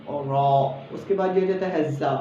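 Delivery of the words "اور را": را thick and rounded; heavy را. Shown as a demonstration. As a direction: sound را full. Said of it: "دیکھیں".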